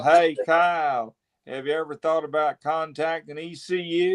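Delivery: Stevie. Acted. Joking replay of Dave's question to Kyle, lightly imitated voice. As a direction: lightly copy a friend's impression of their buddy. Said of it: "I was doing Dave doing Stevie".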